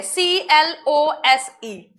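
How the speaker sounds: letters spelt out slowly; slow spelling out. Shown as a demonstration. Teacher spelling the word letter by letter, slow. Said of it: "वो ये है".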